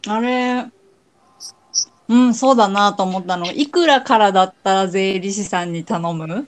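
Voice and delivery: talking while eating; mouth full. Real, not acted. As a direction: speak through a mouthful of food. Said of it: "食べながら喋る。".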